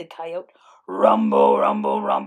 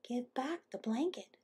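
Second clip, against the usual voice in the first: higher, soft little hummingbird voice; tiny voice; 4 semitones higher, 9 dB quieter than usual. A narrator's reading. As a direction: speak small and softly as a tiny bird. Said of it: "said a tiny voice".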